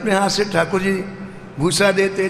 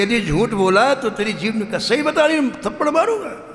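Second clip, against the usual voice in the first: angry threat; 2 semitones higher than usual. Acted. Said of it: "बड़ा गुस्सा है".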